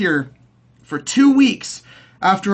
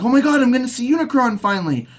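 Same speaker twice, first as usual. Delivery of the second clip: excited fan; 5 semitones higher, faster than usual. Retold or imitated. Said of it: "I'm like".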